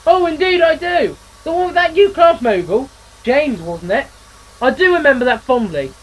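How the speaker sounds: booming jolly laughter; hearty laugh. Acted. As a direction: laugh like a jolly old engine. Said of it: "The others laughed harder than ever".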